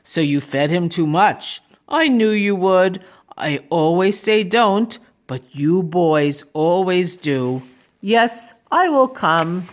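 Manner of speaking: lightly voiced knowing grown-up; Mister Carp. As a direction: gently reproach the boy in character. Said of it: "said Mister Carp".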